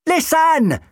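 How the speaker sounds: high sharp shout. A narrator's reading. The Doctor shouting in McCafferty's ear, urgent shout. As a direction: shout it right into his ear. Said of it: "the doctor shouted in McCafferty's ear".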